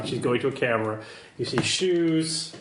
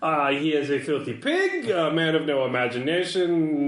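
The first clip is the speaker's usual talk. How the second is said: disdainful contact character. Acted.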